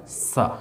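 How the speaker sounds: "सा" as S plus open vowel; sound demo. Shown as a demonstration. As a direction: sound out "सा" by itself. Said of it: "इसका उच्चारण हो जाता है".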